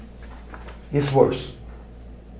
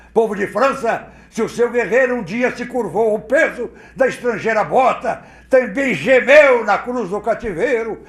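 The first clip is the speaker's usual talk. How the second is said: bronze voice; 6 semitones higher than usual. Shown as a demonstration. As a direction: thunder it like a general rallying a nation. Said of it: "Eu quero voz de bronze".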